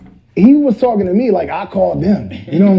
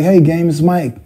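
regular voice, a hint of MJ. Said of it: "And regular voice".

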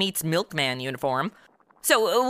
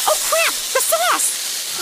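startled outburst; much slower than usual. Real, not acted. Cook sees the sauce melt the cup, startled yelp. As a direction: blurt it as the pot boils over. Spaghetti sauce boils over.

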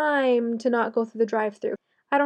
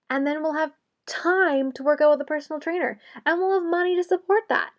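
sarcastic; 3 semitones higher than usual. Acted. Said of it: "you can start to hear the sarcasm come out of my voice".

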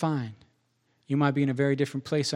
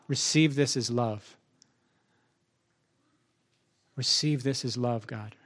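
lower, quieter aside to God; retold prayer; 3 semitones lower, 4 dB quieter than usual. Praying to God during morning push-ups, retold quiet prayer. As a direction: recount a simple prayer, softly and low. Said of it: "I'm saying to God".

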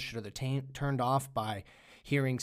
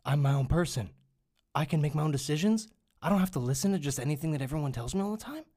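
lightly voiced, louder awestruck revelation, faster at the end; mock enlightened stoner; 4 semitones higher, 4 dB louder, faster than usual. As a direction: parody someone suddenly liberated, a bit loud and eager. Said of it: "Just like if people smoke weed".

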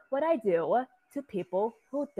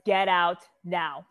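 firm command; 6 dB louder, slower than usual. Acted. Ordering Tav out firmly.

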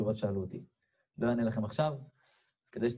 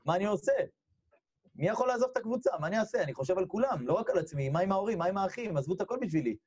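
higher-pitched, pleading run of questions; acted worried protest; 7 semitones higher than usual. Player torn over leaving his team, high anxious pleading. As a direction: plead as if cornered with no way out. Acts out his panic at quitting.

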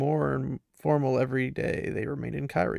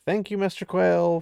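higher, courteous dismissal of Quayle; polite thanks; 5 semitones higher than usual. Retold or imitated. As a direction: thank him politely, already showing him out. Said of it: "And he's like".

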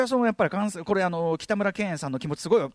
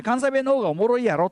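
higher, put-on Kansai-ben; show-off Kansai accent; 4 semitones higher than usual. Gifu student showing off borrowed dialect, fake Kansai accent. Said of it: "関西弁イキリが発動したのです".

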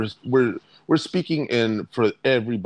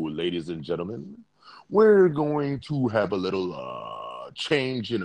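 pilot voice. Pretend. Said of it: "that's my pilot voice".

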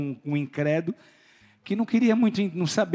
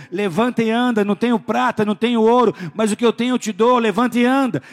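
commanding preach; 6 semitones higher, 5 dB louder than usual. Acted. Preacher voicing Peter's command.

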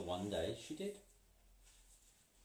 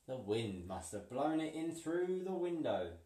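boldly; 4 semitones higher than usual. Acted. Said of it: "she said boldly".

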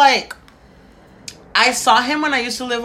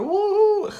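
drawn-out, rising celebration with a high woo; freaking out; 11 semitones higher than usual. Retold or imitated. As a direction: stretch it out, then a high whoop. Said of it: "my sister was freaking out".

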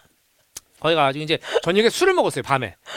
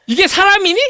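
mock outrage; 11 semitones higher, 8 dB louder than usual.

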